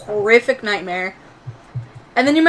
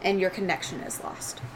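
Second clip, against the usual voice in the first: game master narration; 4 dB quieter than usual. Acted. Game master describing dark tendrils at the vent, hushed suspense.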